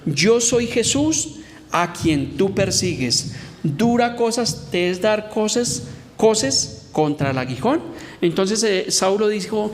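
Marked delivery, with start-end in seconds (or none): 0.1-7.8 slow, weighty divine voice speaking from heaven; solemn voice of Jesus. Acted. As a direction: let each word fall slowly like a voice from heaven. Voz de Jesús hablando a Saulo. (voz de Jesús, solemne y lenta)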